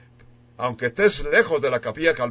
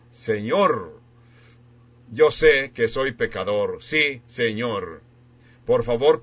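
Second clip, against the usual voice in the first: led prayer. Acted. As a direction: pray it phrase by phrase so they can echo you. Leads a prayer to repeat.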